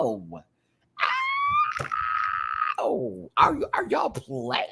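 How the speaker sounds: high mock yelp of surprise. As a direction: yelp it like you've been hit, half joking. Reacting to clip, mock pain.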